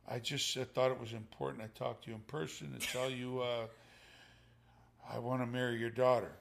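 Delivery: soft, halting suitor voice; quiet, with pauses before the big ask; retold hesitant request. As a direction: imitate someone carefully asking permission. Nervous suitor asking for daughter's hand.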